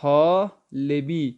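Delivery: طالبی stretched slowly; teacher models طالبی slowly; slow model word. Shown as a demonstration. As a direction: give طالبی slowly to the class. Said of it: "کیا پڑھیں گے؟".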